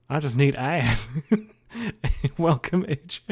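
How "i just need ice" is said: put-on southern accent turning ice into "ass"; imitated ice mispronunciation. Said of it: "a video of a woman saying ice".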